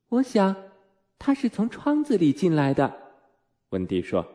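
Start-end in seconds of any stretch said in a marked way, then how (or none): 0.1-2.9 put-on a higher-pitched, matter-of-fact little girl; lightly voiced child Wendy. Narrator voices young Wendy to mother. (轻微模仿小女孩的声音)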